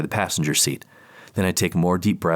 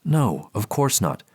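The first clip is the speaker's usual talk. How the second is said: slow, higher calm reassurance; measured therapist; 4 semitones higher, slower than usual. Acted. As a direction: soothe him slowly and carefully. Therapist on the phone.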